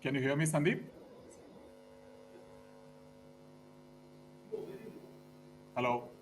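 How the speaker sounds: faint voice over a weak line; softly, barely coming through; barely audible. Real, not acted. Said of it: "the volume is very low".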